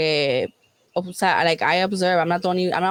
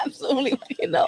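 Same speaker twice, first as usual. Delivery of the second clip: emphatic refusal; 5 semitones higher, much faster than usual. Real, not acted. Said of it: "Why would you say it like that?".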